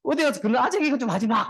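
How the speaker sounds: high-pitched imitation of a nagging daughter; pleading daughter. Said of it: "우리 딸 옆에 보고 있다가".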